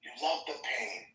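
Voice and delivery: put-on a light African accent, lifted a little; African accent impression. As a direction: mimic the African meme guy saying You love the pain. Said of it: "next to this accent".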